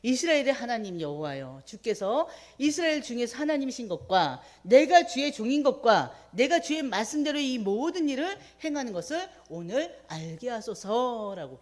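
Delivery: fervent prayer. Retold or imitated. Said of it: "기도합니다".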